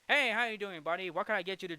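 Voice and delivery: bartender greeting. Retold or imitated. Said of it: "like, Mister Martini say".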